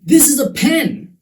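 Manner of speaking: very high-pitched exclamation; high, emphatic burst; exclaiming. Shown as a demonstration. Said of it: "some examples that I thought were fun".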